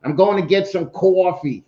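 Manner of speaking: exaggerated New York woman's accent; mock New York accent. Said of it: "a chick with a New York accent".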